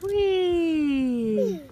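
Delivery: long drawn-out "Whee!"; playful whee. Real, not acted. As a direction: cheer as the car rolls. Playing with toy cars.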